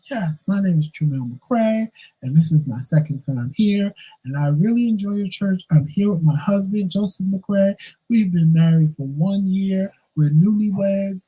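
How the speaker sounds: a hint of proud husband introducing himself; quoting husband. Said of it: "He stood up and said".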